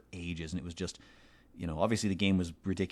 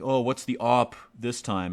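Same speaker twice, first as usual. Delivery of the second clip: lightly voiced soldier; 4 semitones higher, 7 dB louder than usual. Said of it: "they make some reference to".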